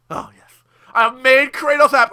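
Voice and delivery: lightly voiced smug god; Poseidon voice. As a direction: play a pleased sea god, hushed then proud.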